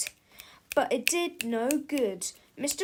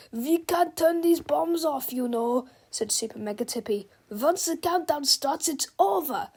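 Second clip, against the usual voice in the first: giant robot villain; 3 semitones higher, 4 dB louder than usual. Acted. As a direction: speak like a huge menacing machine. Giant Super Mega Tippy voice.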